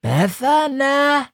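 squeaky high, slow little snail. Acted. Snail asking the crow, high and dreamy. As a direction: ask it like a dim tiny snail.

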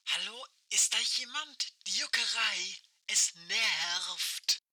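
like a far-off voice over a walkie-talkie; old rotary phone. Acted. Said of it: "Aisches Stimme knarzt durch das Funkgerät".

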